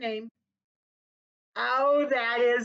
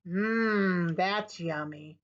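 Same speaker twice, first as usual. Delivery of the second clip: yummy; 4 semitones lower, much slower than usual. Acted. Savoring peanut butter apples.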